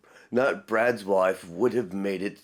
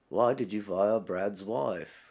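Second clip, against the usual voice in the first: slow mock British delivery; lightly hammed-up British accent; imitated British accent; 4 dB quieter, slower than usual. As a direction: draw it out in a put-on British voice. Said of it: "anything with a British accent".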